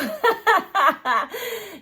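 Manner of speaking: high, open burst of laughter; real giggling laugh; amused laugh. Real, not acted. Laughs after saying I don't know.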